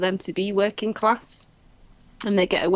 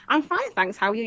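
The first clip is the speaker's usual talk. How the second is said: higher-pitched, put-on chirpy answer; mock polite reply; 4 semitones higher than usual. Outsider replying to a Manchester greeting, mock polite. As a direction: imitate someone answering a greeting too literally. Voicing someone misreading a greeting.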